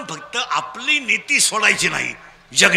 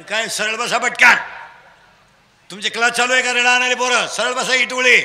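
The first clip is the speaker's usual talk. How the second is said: loud, commanding call to the crowd; full-force preaching; 3 semitones higher, 6 dB louder than usual. Real, not acted. Preacher scolding children to sit straight, full-force preaching.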